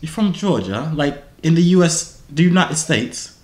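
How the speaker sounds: mock British accent; put-on British. Asking where a stranger lives, put-on British accent.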